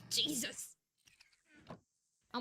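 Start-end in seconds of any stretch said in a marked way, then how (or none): 0.1-0.8 laughing whisper. Real, not acted. Finding all the cobblestone.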